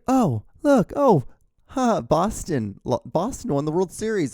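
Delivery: high, mock-sweet girlfriend voice, drawn out on Boston. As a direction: lampoon the ex cooing about her team winning. Ex-girlfriend voiced in breakup story.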